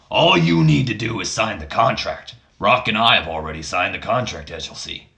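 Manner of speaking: lightly voiced boss, falling away at the end; a hint of a throaty impression; Vince McMahon. Father pressing his son to sign, mild impression. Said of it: "Vince McMahon, how do you speak?".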